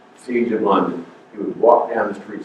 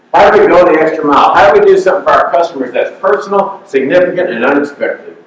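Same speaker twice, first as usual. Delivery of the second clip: rousing pep talk; 7 semitones higher, 6 dB louder than usual. Acted. Sales pep talk rising.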